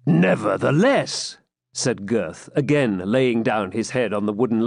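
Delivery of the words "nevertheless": slow, drawn-out, higher sullen refusal; a stubborn, put-out swineherd; offended swineherd. A narrator's reading. Swineherd refusing the pilgrim, slow and sullen. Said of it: "offended at the familiar and commanding tone".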